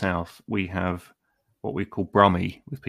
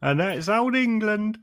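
higher, slow closing flourish; lightly hammed narrator; slow grand mock English; 12 semitones higher than usual. Closing improv line.

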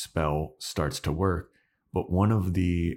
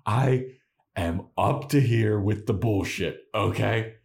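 raised, exasperated outburst; fed up; 4 semitones higher than usual. Retold or imitated. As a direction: vent like she's had enough. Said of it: "And she's like".

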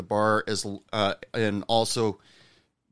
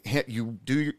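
pep talk; 3 semitones higher than usual. Retold or imitated. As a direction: cheer up a gloomy server, eager.

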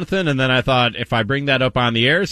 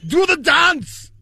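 hyped dance call; 13 semitones higher, much slower than usual. Acted. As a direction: call out the dance moves like a hype man. Mock TikTok dance instruction.

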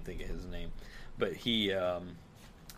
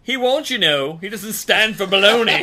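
laughing; 11 semitones higher, 15 dB louder than usual. Real, not acted.

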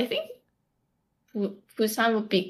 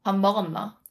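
short question in Gyeongsang dialect; much faster than usual. Shown as a demonstration. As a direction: teach a phrase in Gyeongsang accent. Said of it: "say it one more time".

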